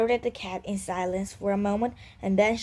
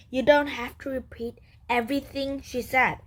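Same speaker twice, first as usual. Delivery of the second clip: rising irritation; 5 semitones higher than usual. Acted. Great-grandpa cat getting irritated at the repeating grandson. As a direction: pitch climbing with annoyance. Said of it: "voice was rising".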